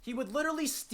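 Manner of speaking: normal talking voice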